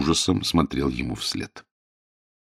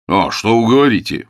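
higher, louder indignant protest; 4 semitones higher, 6 dB louder than usual. A narrator's reading. James protests to Rosa, indignant. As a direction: bristle at being called a hero. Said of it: "возмутился Джеймс".

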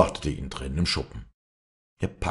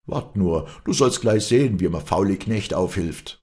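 raised, menacing outburst; angry threat; 5 semitones higher, 6 dB louder than usual. Acted. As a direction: threaten the farmhand with a beating. Master threatens farmhand with a club. (wütende Drohung)

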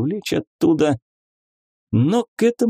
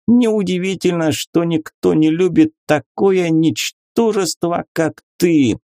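contemptuous; 6 semitones higher than usual. A narrator's reading. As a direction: sneer every word to wound. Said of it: "сочилась презрением".

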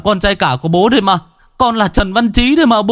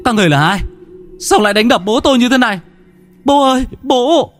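higher, fast, panicked calling out; alarmed cry; 14 semitones higher, faster than usual. A narrator's reading. Son crying out to his beaten father, panicked. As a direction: shout in shock at the beating.

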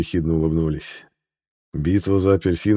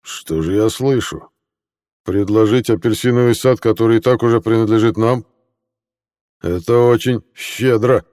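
booming; 3 semitones higher than usual. Acted. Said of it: "Военачальник гулко произнёс".

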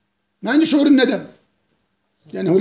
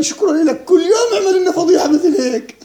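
mock grateful cheer; 4 semitones higher than usual. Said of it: "الشعب التركي بيقولوا لأردوغان".

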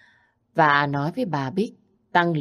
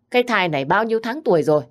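fast, louder pressing question; urgent question; 4 semitones higher, 5 dB louder, faster than usual. Acted. Husband presses his wife for details, urgent and fast. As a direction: rush the question out.

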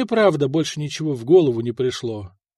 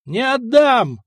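high, raised-voice refusal; defiant shout; 8 semitones higher, 4 dB louder, slower than usual. A narrator's reading. Vyshata refusing to give up his silver, defiant shout.

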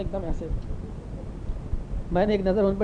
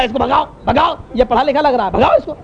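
higher-pitched, agitated retold command; mock urgent order; 4 semitones higher than usual. Imam orders educated outsider chased away, mock agitated shouting. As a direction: call out to get rid of him.

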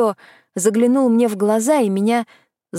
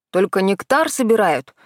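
обиженно. Acted. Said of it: "возмутился".

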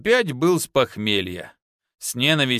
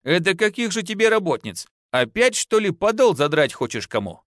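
rising, jealous reproach; jealous wife challenging her husband; indignant; 7 semitones higher than usual. A narrator's reading. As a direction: scold him, suspicious. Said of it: "возмутилась жена".

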